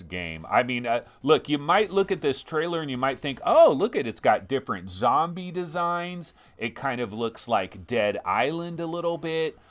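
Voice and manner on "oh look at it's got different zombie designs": higher-pitched, loud "oh" of a wowed viewer; mock impressed. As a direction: act like an easily impressed trailer watcher. Imitates an impressed trailer viewer.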